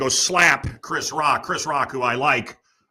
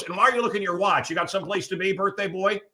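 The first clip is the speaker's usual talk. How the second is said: teasing; 5 semitones higher, 3 dB quieter, faster than usual. Real, not acted. Teasing someone checking watch.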